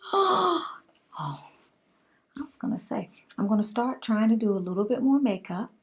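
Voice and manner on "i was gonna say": slow hushed whispered aside. Real, not acted. Pausing her makeup talk to viewers, a slow whisper. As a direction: drop to a whisper as if recalling something.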